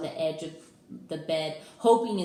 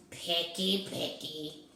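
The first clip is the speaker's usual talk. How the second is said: complaining; slower than usual. Acted. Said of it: "Herbert complained".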